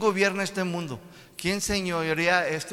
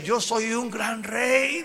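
voice of God; 6 semitones higher, much slower than usual. Acted.

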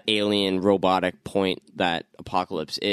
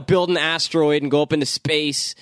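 mock villain voice; 6 semitones higher, faster than usual. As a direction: brush it off as a silly villain.

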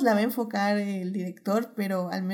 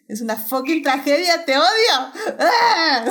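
half-laughing outburst, louder and higher; all in one breath; 6 semitones higher, 8 dB louder, slower than usual. Real, not acted. Fan outburst about a tragic film. (de un solo aliento, riendo y exaltada)

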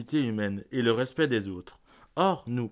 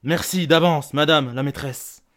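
forceful warning; 4 dB louder than usual. Acted. Parent warns teacher after a fight.

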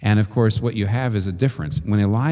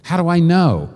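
questioning skeptic; 4 semitones higher, faster than usual. Retold or imitated. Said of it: "People constantly say to me".

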